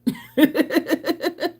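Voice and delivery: bright high burst of laughter; real laugh. Real, not acted. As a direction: laugh out at the memory. Laughing at people's confusion.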